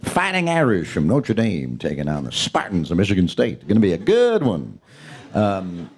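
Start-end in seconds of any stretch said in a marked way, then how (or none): 0.0-4.8 college basketball announcer, hammed up a touch; lightly voiced game announcer; sports announcer voice. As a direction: call it like a TV play-by-play man. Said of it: "you'll get this guy going".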